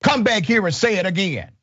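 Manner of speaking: lightly put-on Southern redneck accent; slight Southern twang, taunting; mock Southern redneck challenge. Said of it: "I'm using my best redneck accent".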